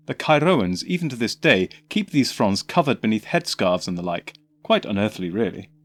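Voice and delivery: lightly voiced eccentric Doctor; the Doctor, breezy lecturing.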